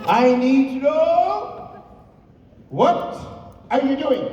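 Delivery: high, loud mock-stern mother; imitation of a mother demanding answers; interrogating mom. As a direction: drag out the demand like a suspicious mom. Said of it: "she's looking at me".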